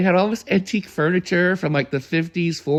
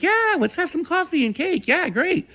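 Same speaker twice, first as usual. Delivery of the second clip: imitating Harriet; 11 semitones higher than usual. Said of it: "Harriet was like".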